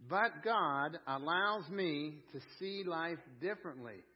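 slowed, every word laid out for the room to repeat; slow call-and-response. Shown as a demonstration. Preacher leading the congregation to repeat the line, slow. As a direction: say it slowly so they can join in. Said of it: "Would you say that with me?".

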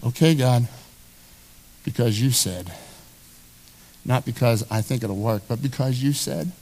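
low, soft resigned murmur; reluctant giving in. Acted. Believer yielding to God, soft and resigned. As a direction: give in quietly, not convinced.

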